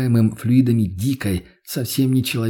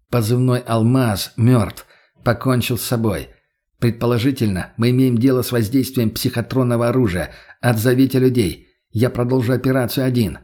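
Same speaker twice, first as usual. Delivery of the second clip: stony voice. Acted. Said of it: "каменным голосом".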